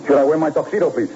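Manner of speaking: light put-on German accent, polite and halting; a detective playing a German gentleman, with a mild German accent. Detective phoning the club posing as a German gentleman, light German accent. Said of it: "you could spout German".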